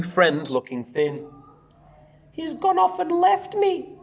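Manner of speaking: put-on lively read-aloud to children; bouncy storybook narration; story reading. A narrator's reading. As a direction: read it out like a picture book for the class. Teacher reads picture book aloud.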